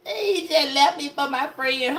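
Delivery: slow mock whimper; mock whiny woman. Mocking a dumped woman, mock whimper. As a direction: whine it like she got played. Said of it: "And here she go".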